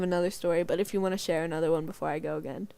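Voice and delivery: fast, low whispered aside. Real, not acted. Offering her friend a turn, fast whisper. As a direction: slip it out under the breath. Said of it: "whispered aside".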